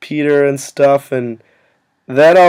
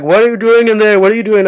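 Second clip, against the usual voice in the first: mock Steph; 7 semitones higher than usual. Steph at the door demanding, higher mock voice. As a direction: pitch up like a nosy friend.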